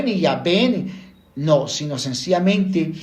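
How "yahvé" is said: "Yahvé" with a hard v sound and weight on VÉ; stress on last syllable. Shown as a demonstration. Teacher rejecting a pronunciation, "Yahvé" stressed on its final syllable. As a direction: punch the end of "Yahvé". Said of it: "sin ningún acento en ninguna de las dos sílabas".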